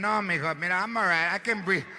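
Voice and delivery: grandma. Retold or imitated. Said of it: "grandma refusing oxygen".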